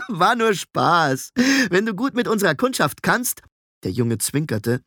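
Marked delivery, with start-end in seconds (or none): 0.1-3.4 put-on high, amused boyish apprentice; mock the idea, tickled by it; giggly, high-pitched teasing; cackling boy. A narrator's reading.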